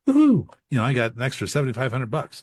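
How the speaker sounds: high, loud woohoo of joy after the call; excited whoop. Retold or imitated. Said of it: "And I'd be all excited".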